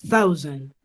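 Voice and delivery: thousand with th close to a soft d; thousand, th almost a d; th sound like a soft D. Shown as a demonstration. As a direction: start thousand with a d-like th. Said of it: "Como con un sonido de D".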